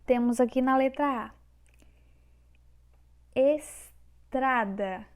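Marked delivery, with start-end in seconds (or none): 3.3-5.0 es... trada, very slow with a pause after es; syllable by syllable. Shown as a demonstration. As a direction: break estrada apart, slow and loud. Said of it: "a divisão silábica está correta".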